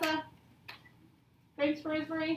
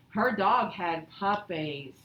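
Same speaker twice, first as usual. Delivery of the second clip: bored; 5 semitones lower, much slower than usual. Shown as a demonstration. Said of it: "That's not boring".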